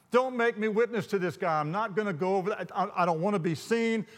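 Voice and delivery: mock-panicked pleading; escalating protest. Escalating protest to God, retold.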